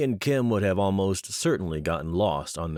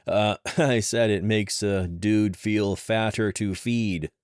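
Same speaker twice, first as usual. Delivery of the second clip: slow, louder, awkward laugh through the lie; stammering cover story with a laugh; nervous laughing cover-up; 4 semitones higher, 4 dB louder, slower than usual. Acted. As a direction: bluff through a nervous chuckle. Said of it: "Dash cleared his throat".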